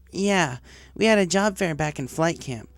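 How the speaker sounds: nervous, keen to impress the boss; young tomboy pony. Acted. Job applicant to the director, eager young voice. Rainbow answers interview.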